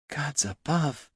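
slow, hushed oath; awed whisper. A narrator's reading. Jelana paling after the doppelganger's capture, stunned whisper. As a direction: breathe it softly, drawn out in shock. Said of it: "she whispered".

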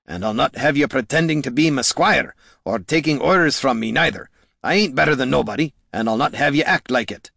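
a touch of indignant protest in character; insistent Gorm. Acted. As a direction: lay down the law to a loyal companion.

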